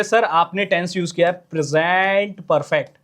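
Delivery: a gentle, slowed student's answer to sir; lovingly as a student. Retold or imitated. Student politely answers the teacher, lightly voiced and slowed. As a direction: answer sir sweetly and a bit slowly. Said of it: "तो आप बड़े प्यार से बोलोगे".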